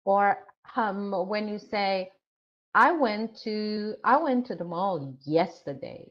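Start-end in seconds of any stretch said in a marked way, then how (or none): 2.7-6.0 yesterday lifted as the key word; teacher demo, yesterday stressed. Shown as a demonstration. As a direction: put the weight on yesterday, the time. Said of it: "Time is more important".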